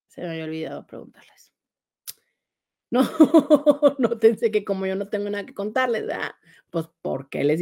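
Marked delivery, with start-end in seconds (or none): 3.1-3.9 short burst of laughter. Real, not acted. Host laughs at her own question to viewers, amused. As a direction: laugh before explaining yourself.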